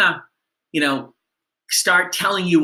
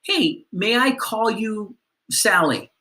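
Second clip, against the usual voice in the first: friendly; 5 semitones higher than usual. Shown as a demonstration. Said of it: "in the spirit of creating great first impressions".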